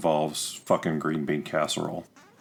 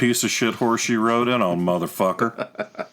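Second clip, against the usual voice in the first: put-on country accent; 2 semitones higher than usual. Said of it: "best country accent".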